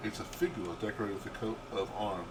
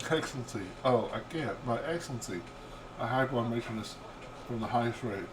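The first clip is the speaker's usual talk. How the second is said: laughing; 3 semitones higher than usual. Acted. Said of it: "bent in half with laughter".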